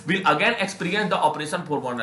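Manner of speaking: reading the English passage slowly and deliberately; measured classroom read-aloud; slow text reading. Shown as a demonstration.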